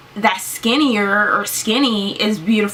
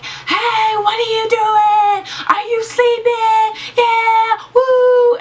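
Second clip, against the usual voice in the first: much higher, slow, put-on grandma voice, louder at the end; imitating grandma; 13 semitones higher, 3 dB louder, much slower than usual. Grandma waking her sleeping granddaughter, high, slow mock voice. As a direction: mimic grandma barging in cheerfully, pitched way up. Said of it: "She was like".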